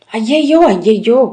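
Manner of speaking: a mock wail of ayyayyo, lightly voiced. A narrator's reading. Jester Mundan panics in front of the brothers, a mild mock wail. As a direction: narrator hams up a cry of alarm. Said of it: "முண்டன் அலறினான்".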